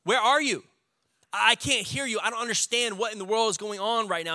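high, pleading cry of complaint; pleading with God. Retold or imitated. Job begging a silent God in a high, pleading cry. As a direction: raise the voice and beg for an answer. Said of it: "I believe he says".

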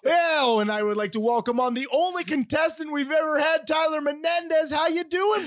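high-pitched, hyped game-show host; over-the-top host intro, sustained high pitch; Cherry Harrington. Acted. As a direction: announce the show in a ridiculous high voice. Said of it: "put really gr-, ridiculous voices on it".

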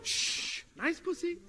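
whispering. Acted. Sneaking past a sleeping dog.

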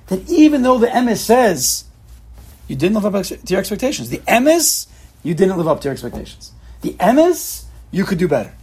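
high, sharp jabs on "The emes"; inner critic. Acted. Rabbi voicing the nagging inner critic, high and pointed. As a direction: needle yourself with the truth.

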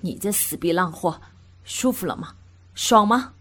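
half-shouting man. A narrator's reading. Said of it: "几乎是用吼的说完".

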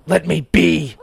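loud high protest; shout. A narrator's reading. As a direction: yell it out. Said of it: "Sawyer shouted".

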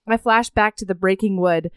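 measured audiobook-style reading; narrating from a novel; story narration. A narrator's reading. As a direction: read the passage aloud evenly. Reads a book passage aloud.

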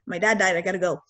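understated, matter-of-fact retelling; just say the words, no emotion. Retold or imitated. Student telling roommates of her dad's death, matter of fact. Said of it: "matter of fact".

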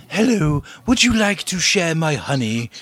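put-on cartoon bear voice; Winnie the Pooh. Costumed bear approaching with an offer, put-on character voice. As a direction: play a storybook bear offering honey. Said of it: "Winnie the Pooh walking up and going".

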